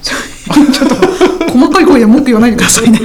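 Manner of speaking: playful scolding through a laugh; amused, laughing reproach; laughing complaint. Real, not acted. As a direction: tell them off while laughing. Teasing complaint amid shared laughter.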